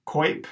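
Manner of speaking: coip said koyp; syllable demo. Shown as a demonstration. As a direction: model coip crisply. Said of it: "pronounced coip".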